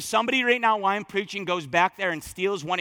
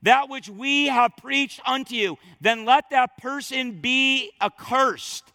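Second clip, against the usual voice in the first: raised, weighty declaration at full force; preaching proclamation; 4 semitones higher, 3 dB louder than usual. Retold or imitated. Preacher reads Paul's curse to the church, loud and slow. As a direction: pronounce the curse over the congregation. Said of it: "He says".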